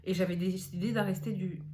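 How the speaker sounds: slight lisp from dental aligner. Real, not acted. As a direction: talk with a light lisp. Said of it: "excusez-moi, je zozote avec mon appareil".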